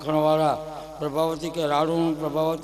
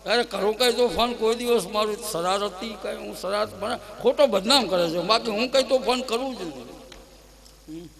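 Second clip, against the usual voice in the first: innocent protest; 5 semitones higher than usual. Acted.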